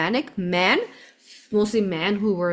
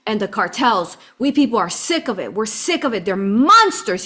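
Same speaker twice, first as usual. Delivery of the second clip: retold yell. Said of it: "He was yelling at me".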